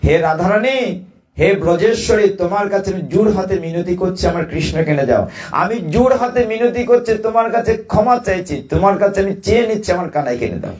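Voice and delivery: retold mother's pleading, pitched high; tearful plea. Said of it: "কাঁদছেন আর বলছেন অচেতন মনে".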